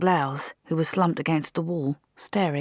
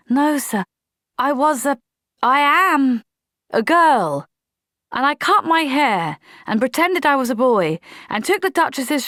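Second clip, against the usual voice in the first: higher, louder earnest pleading; earnest young soldier; 9 semitones higher, 5 dB louder than usual. A narrator's reading. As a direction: insist on the truth. Polly's long confession.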